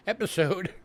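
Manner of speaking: episode with a clean ending; episode, said carefully and falling; corrected episode. Shown as a demonstration. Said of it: "my New York accent coming through there".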